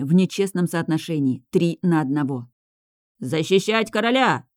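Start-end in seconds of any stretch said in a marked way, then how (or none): 3.2-4.5 slow battle cry, pitched up; rally the men with a yell; shouting. A narrator's reading. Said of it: "заорал один из рыцарей".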